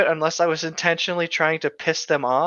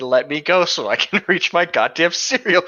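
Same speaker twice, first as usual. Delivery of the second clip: laughing mock complaint; 3 semitones higher than usual.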